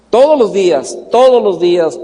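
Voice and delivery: TODOS hit hard, then falling away; emphatic repetition. Real, not acted. Preacher stressing the daily prayers to the congregation, emphatic repetition. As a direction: punch "Todos" each time, falling through "días".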